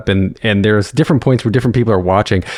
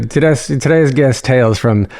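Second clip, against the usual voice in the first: amateur Australian accent; host intro in a put-on Australian accent; attempted Australian accent. Shown as a demonstration. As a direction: try out an Australian accent, carefully. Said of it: "you can do your Australian accent".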